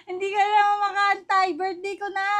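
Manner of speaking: high, loud whine of protest; exclaimed, high-pitched objection. Real, not acted. Protests about early birthday gift.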